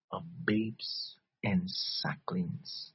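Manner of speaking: hushed whisper on the verse; whispered scripture. Real, not acted. Preacher whispering the verse to the congregation. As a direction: breathe the words like a secret.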